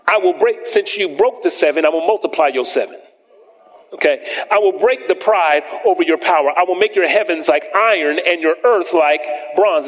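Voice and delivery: preacher reading scripture aloud to the church. Acted. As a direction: proclaim the verses from the pulpit. Reads scripture in raised voice.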